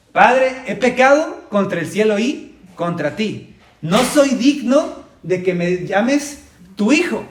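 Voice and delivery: humble confession. Retold or imitated. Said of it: "entonces le dice lo que ensayó".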